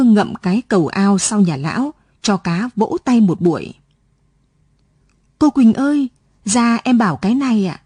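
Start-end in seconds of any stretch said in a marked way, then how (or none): 5.4-7.8 calling out. Acted. Boy calls teacher Quỳnh to the gate, eager call. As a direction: call her out of the house, eager.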